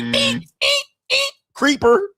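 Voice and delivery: very high, hammed-up shriek of disgust; squealing girl. Cashier squealing at a customer who's been stalking her.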